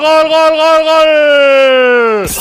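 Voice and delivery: long drawn-out goal shout; goal yell. Real, not acted. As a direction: roar the goal, stretching it out. Narrador canta gol del Sporting. (grito de gol eufórico y alargado)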